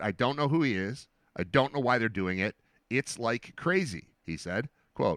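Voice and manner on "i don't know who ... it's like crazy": ordinary talk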